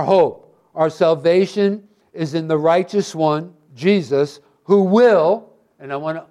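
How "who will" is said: WILL pushed out a little louder; stress on WILL. Real, not acted. Preacher underlining a promise about Jesus, stress on WILL. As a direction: lean on the word "will". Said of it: "emphasize that word".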